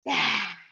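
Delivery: forceful open-mouthed breath out; lion's breath exhale. Shown as a demonstration. Teacher repeating the breathing exercise, lion's breath exhale. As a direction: breathe out hard like a lion. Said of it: "Take a deep breath in".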